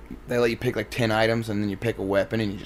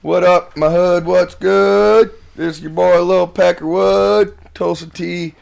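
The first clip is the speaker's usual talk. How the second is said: rapper intro; 4 semitones higher, 4 dB louder, slower than usual. Pretend. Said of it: "I can't rap for shit".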